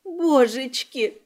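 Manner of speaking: slow tearful wail of a frightened maid; a slow broken cry of Божечки, voice changed by tears; sobbing, drawn out. Acted. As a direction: drag the word out through sobs. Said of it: "всхлипнула Салли".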